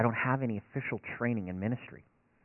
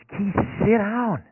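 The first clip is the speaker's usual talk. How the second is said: slow, higher, louder firm wife; 10 semitones higher, 8 dB louder, much slower than usual. Retold or imitated. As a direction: tell your pacing husband to sit, firmly and slowly. Wife firmly tells him sit.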